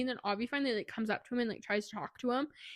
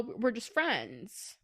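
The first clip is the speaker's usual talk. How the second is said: very slow, stretched words; drawn-out rejection; much slower than usual. Retold or imitated. Drunk Kieran telling Avi they're only friends, very slow. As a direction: let each word land slowly.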